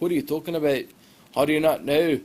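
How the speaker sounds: put-on indignant question in a homemade Scottish accent; attempted Scottish accent. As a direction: have a shaky go at a Scottish accent. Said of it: "Can't do a Scottish accent".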